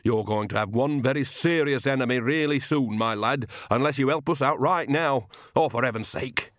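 lightly voiced stern old countrywoman; a hint of exasperated old woman; scolding Nanny figure. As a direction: threaten him like a cross nanny. Narrator voices Nanny scolding Igor.

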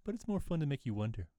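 quoted catchphrase, starting high; game character's reply. Acted. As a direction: toss off a hero's teasing line. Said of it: "I've used that in my day-to-day life".

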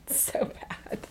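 soft words through laughter; laughing. Real, not acted. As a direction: say it while breaking up laughing. Laughing over her cramping hands.

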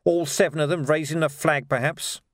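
mildly scornful proposal; sarcastic. Acted. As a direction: pile on false enthusiasm. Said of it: "said Vimes sarcastically".

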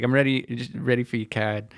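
understated imitation of a Boston accent; slight Bostonian accent. Repeating the coworker's line to friends, slight Bostonian accent. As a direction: let the r's fall away, lightly Boston. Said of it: "in a slight Bostonian accent".

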